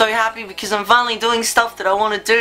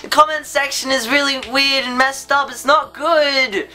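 raised, bouncy cartoon-character delivery; cartoony voice; 5 semitones higher than usual. Real, not acted. Vlogger slips into a raised cartoony voice. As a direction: talk like a cartoon character, up in pitch. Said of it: "Why am I talking like I'm in a cartoon?".

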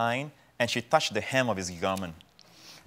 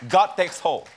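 raised, louder preaching call; higher and louder on let go; preaching peak; 6 semitones higher, 6 dB louder than usual. Real, not acted. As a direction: lift it like a sermon climax. Preaching climax.

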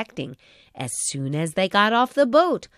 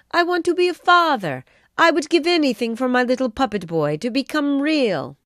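put-on yearning old carpenter; 5 semitones higher, 4 dB louder than usual. Geppetto wishing to the stars.

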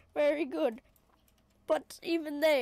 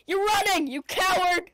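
mock taunt; 5 semitones higher, 6 dB louder than usual.

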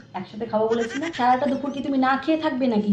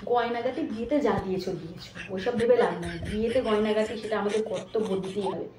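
hushed; 2 semitones lower, 6 dB quieter than usual. Acted. Secret plan with husband.

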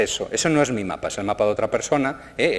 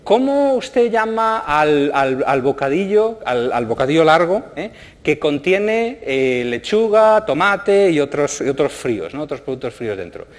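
much higher, slow quiz voice; reading the app's question; 4 semitones higher, 3 dB louder, slower than usual. Retold or imitated. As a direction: put on the app's voice, slowly. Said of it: "me dice". (pregunta de la aplicación, aguda y lenta)

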